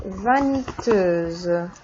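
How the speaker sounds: vaniteuse stretched slowly, ending clearly in -euse; slow model pronunciation. Shown as a demonstration. Teacher modeling the feminine vaniteuse slowly for the class. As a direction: draw vaniteuse out for learners.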